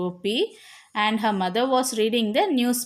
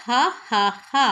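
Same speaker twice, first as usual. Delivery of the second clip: mock laugh. Shown as a demonstration. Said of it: "I laugh".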